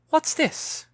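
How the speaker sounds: breathy, high, surprised question; a sudden startled find. Acted. Mother finding a leaf in her daughter's hair, breathy surprise.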